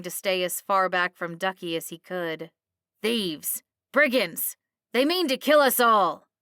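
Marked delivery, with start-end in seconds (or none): 3.0-6.3 high, loud alarm cries; agitated shouting. A narrator's reading. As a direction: raise the alarm to the crowd. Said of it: "Archibald shouted, jumping on the spot".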